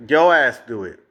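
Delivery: loud blunt order; forceful. Real, not acted. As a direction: bark the order. Telling her off.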